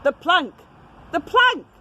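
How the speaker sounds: high, loud chant of the plank; pirate yell. Acted. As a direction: yell it twice, rising in glee. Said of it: "yelled Ben Buckle and Percy Patch".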